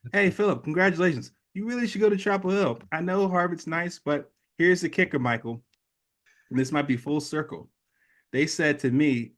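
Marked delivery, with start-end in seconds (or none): 0.1-7.7 higher, eager recruiter pitch; hammed-up alumnus giving the hard sell; pushy alumni caller. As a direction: sell him on Chapel Hill. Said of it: "alumni calling me out of the woodworks saying".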